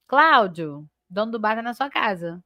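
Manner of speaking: Cláudio called out, then a pause and the message said to him; vocative intonation. Shown as a demonstration. Teacher showing the vocative reading to the class, calling out the name. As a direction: address Cláudio directly, then drop into the news. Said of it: "Até a entonação tem que mudar".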